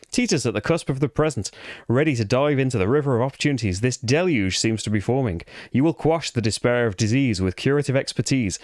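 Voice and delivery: reading the campaign story in a put-on English accent. Player reading the campaign book aloud to viewers, mock English accent. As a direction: narrate it in your best English accent. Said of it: "I'll read it in my best English accent".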